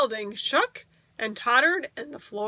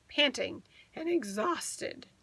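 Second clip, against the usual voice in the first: slow, breathless whisper; tired storyteller whisper; 6 dB quieter than usual. A narrator's reading. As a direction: let it sink, exhausted. Whispered, slowed.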